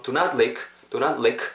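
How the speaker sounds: lick short, final k released; short with audible K. Shown as a demonstration. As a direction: keep lick short and sound its k. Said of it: "이렇게 짧게 K 사운드까지 살리면서". (lick을 짧게, 끝 k 소리까지 살려서)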